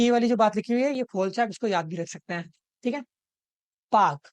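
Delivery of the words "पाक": पाक said with a breathy aspirated p; demo word. Shown as a demonstration. Teacher demonstrating पाक to students, aspirated. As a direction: say पाक slowly, letting air out on the p. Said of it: "पाक को हम पार्क री-, ऐसे read करते हैं".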